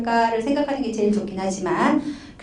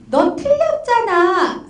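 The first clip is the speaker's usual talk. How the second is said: reproachful; 6 semitones higher, much slower than usual. Retold or imitated. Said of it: "라고 말하는 것 같을 때".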